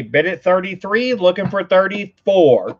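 showing how to call bids; slightly lifted model bid call; feed the auction line to a child; auctioneer demo. Shown as a demonstration. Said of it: "You, you say".

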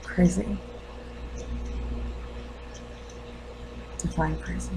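restrained questioning, long pauses between lines; lightly played grieving mother, guarded and probing; wounded mother challenging the doctor. Mother asks doctor if she looks crazy, quietly challenging. Acts monologue of bereaved mother.

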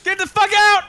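shouting. Real, not acted. Shouting at others during game mishap.

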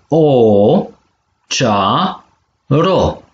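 long o, then cea and ro apart; syllable by syllable. Shown as a demonstration. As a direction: split it cea - ro, with a gap between. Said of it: "So de silabe si". (pe silabe: cea, ro)

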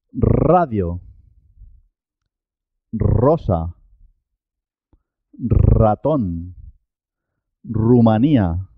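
long trill opening "radio", "rosa", "ratón", "Rumanía"; rolled initial R. Shown as a demonstration. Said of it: "suena doble".

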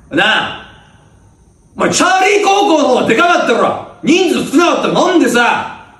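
gruff upperclassman laying into the juniors; bullying senior. Acted. Senior scolding first-years about cheering, bossy upperclassman. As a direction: lean on them like a bossy senior.

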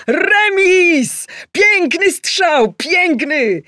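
very high, loud, slow cheering; excited cheering. Acted. Adam cheering the goal on TV, excited. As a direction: roar with delight at the shot.

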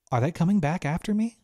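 put-on anxious girl. A narrator's reading. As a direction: press the question fearfully. Girl asks again.

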